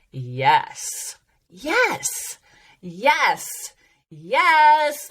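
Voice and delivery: bright, bouncing yeses, the last one loudest; playful yeses. Shown as a demonstration. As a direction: play with each yes, growing bolder. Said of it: "just have fun with your yeses".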